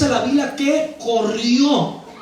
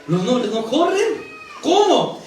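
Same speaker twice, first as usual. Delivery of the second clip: incredulous question climbing high; mock shock, ending on a sharp exclamation; scandalized Pharisees; 4 semitones higher, slower than usual. (incredulidad escandalizada de fariseo)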